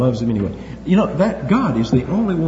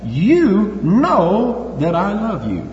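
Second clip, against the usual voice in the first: slow, higher, earnest plea; voicing Peter; 4 semitones higher, much slower than usual. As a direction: Peter pleading, drawing out "you". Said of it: "He said to him".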